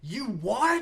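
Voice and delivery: high-pitched incredulous cartoon scream; SpongeBob guy scream. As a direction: scream it like an outraged cartoon fish. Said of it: "he, like, screams it, you know?".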